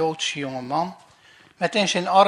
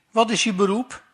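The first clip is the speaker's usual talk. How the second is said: stern officer; 4 semitones higher, 5 dB louder than usual. Acted. Officer questions Moos.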